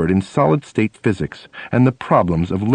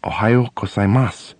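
polite greeting. Retold or imitated. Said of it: "She turns to me and says politely".

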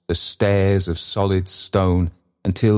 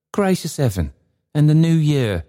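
put-on high, desperate old man; anguished old man; 9 semitones higher than usual. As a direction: cry to heaven in despair. Trotty sees himself dead.

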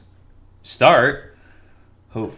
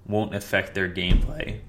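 voice cracking. Real, not acted. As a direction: voice cracks mid-phrase. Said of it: "my voice cracked".

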